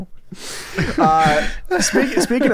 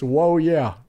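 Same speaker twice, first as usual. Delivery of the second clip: Macho Man impression; 4 semitones lower than usual. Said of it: "from the great Macho Man".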